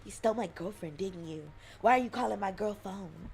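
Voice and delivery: lightly voiced jealous boyfriend; deep manly voice. Boyfriend accusing scam caller, mock manly voice. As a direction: accuse like a mock tough guy, near laughter. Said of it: "manly voice and be like".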